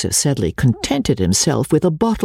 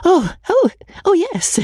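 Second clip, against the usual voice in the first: much higher, strained gasps; gasping in pain. Acted. Rebecca choking on curry, high pained gasps. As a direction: squeak it out as the pepper burns.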